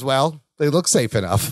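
low, mildly condescending retelling. Retold or imitated. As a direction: imitate a grudging, superior verdict. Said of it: "So condescending".

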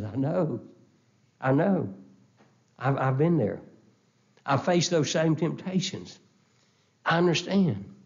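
gentle comfort. Retold or imitated. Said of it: "wraps his loving arms around us and says".

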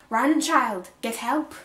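put-on high, loud command to a child; urgent cry. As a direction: send them running for help. Urgent order in story read aloud.

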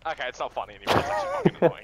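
fed up. Real, not acted. Fed up with being blocked in game.

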